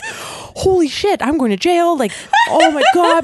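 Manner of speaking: high, laughing disbelief; laughing panic. Real, not acted. Laughing through retold panic.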